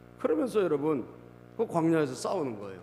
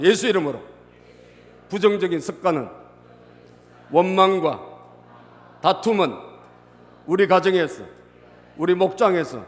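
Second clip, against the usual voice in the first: forceful higher chant in short phrases; loud declaration; 3 semitones higher, 9 dB louder than usual. Real, not acted. Preacher leading congregation to cast out bad habits, loud declaration. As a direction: call out each phrase for the crowd to repeat. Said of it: "따라서".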